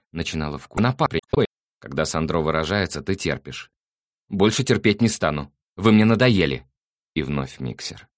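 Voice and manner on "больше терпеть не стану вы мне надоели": fed-up mother. Acted.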